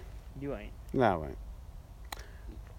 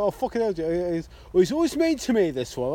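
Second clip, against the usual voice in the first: imitating Julie; 3 semitones higher than usual. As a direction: squeak out a mock complaint as the northern colleague. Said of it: "she's going".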